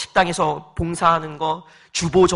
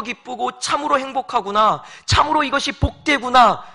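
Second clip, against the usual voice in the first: higher, bright-hearted inner voice of joy; joyful confession; 5 semitones higher, 3 dB louder than usual. Retold or imitated. Pastor voicing a grateful believer, joyful and higher. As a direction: voice the believer's happy realisation. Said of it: "라고 말하게 한다는 것입니다".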